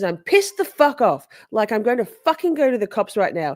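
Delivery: hammed-up pissed-off caller; mocking Katie. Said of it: "She goes".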